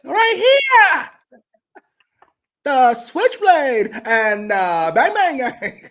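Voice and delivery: put-on high, loud, slow New Zealand accent. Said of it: "that was your New Zealand accent?".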